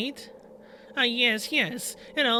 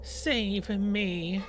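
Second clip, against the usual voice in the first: slow, pleading ghost voice; ghostly voice; much slower than usual. Acted. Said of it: "you hear a ghostly voice coming from behind you like an echo".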